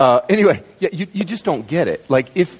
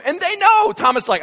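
ordinary talk

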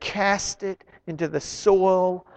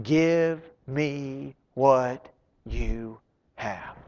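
slow, soft and tender, much quieter; gentle invitation; 4 semitones lower, 8 dB quieter, much slower than usual. Acted. Jesus gently asking the doubting father for his little faith. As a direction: offer it softly, drawing him in.

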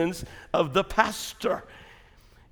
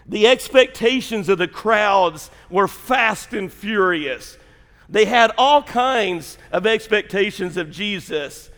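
preaching; 4 semitones higher, 4 dB louder, slower than usual. Acted. Shifts into preaching delivery.

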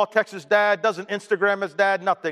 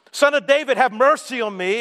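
imitated shouting; 4 semitones higher than usual. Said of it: "He begins shouting".

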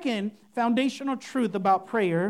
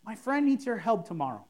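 softer, plain heartfelt prayer; simple sincere prayer; 2 semitones lower, 4 dB quieter than usual. Shown as a demonstration. Pastor demoing a sincere prayer for a friend's interview. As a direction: pray it simply, like you mean it. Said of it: "should go something like".

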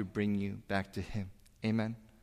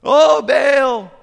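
much higher, loud desperate shout; yelling louder; 15 dB louder than usual. Retold or imitated. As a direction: cry out to the idol at full voice. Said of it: "they all start yelling louder".

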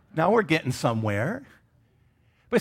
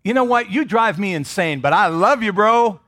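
louder, high mock exasperation that turns affectionate; lightly acted gruff affection toward a fellow churchgoer; exasperated fondness; 4 semitones higher, 4 dB louder than usual. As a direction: tease a brother you can't stand but love. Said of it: "It's like".

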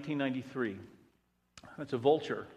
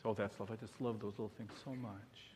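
mock gooey gush; 3 semitones lower, 11 dB quieter than usual. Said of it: "gooey feeling".

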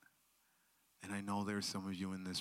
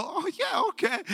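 much higher, caught-off-guard agreement; surprised yes; 12 dB louder than usual. Retold or imitated. Speaker answering the girl's hug request, startled. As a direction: sound taken aback then glad.

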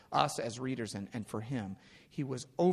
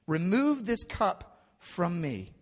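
slow, loud, high plea; acted anguished appeal; begging prayer; 6 semitones higher, 5 dB louder, slower than usual. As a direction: beg with drawn-out, raised voice. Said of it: "he begs the Father".

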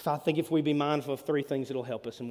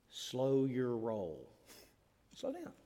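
slow and soft; 5 semitones lower, 9 dB quieter, slower than usual. Shown as a demonstration. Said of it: "demonstrating slowing down".

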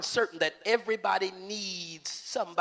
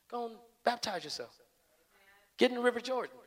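softer, hushed humble pleading; gentle servant; 2 semitones lower, 6 dB quieter than usual. Acted. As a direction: talk him down quietly. Servant urging Naaman gently.

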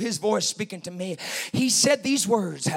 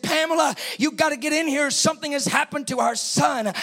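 mild mock yell to wife; imitating dad's urgent call; retold yelling; 5 semitones higher than usual. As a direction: call out urgently, pitched a little up. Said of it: "he yelled at my mom".

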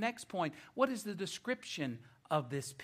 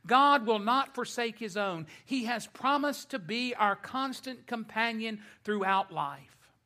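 raised, emphatic pulpit voice; preaching; 5 semitones higher, 6 dB louder than usual. Acted. Preacher assures the congregation of God's companionship, emphatic preaching.

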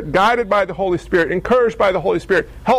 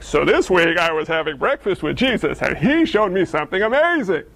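mock preacher voice; 3 semitones lower than usual. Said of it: "what my sermons would be like".

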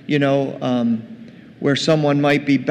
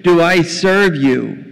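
loud, indignant complaint; acted resentful son airing his grievance; angry elder son; 2 semitones higher, 5 dB louder than usual. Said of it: "He's angry".

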